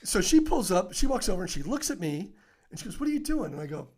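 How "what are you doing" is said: high-pitched imitation of a baffled question; retold puzzled demand. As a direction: act out a colleague's astonishment. Sergeant confronts him, retold.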